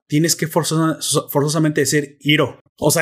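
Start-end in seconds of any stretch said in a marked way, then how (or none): 2.2-2.6 "Iro" said as written, starting with an "ee" sound; Spanish reading of "Iro", EE-ro; Hispanicized pronunciation. Shown as a demonstration. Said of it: "Si tú quieres españolizarlo".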